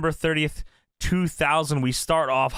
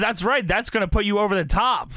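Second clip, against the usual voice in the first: voicing Cyrus; 6 semitones higher than usual. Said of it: "Cyrus says".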